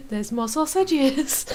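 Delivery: slow, attempted Welsh accent on sausages. Shown as a demonstration. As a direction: try the sausages line in Welsh lilt. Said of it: "I can't say sausage in a Welsh accent".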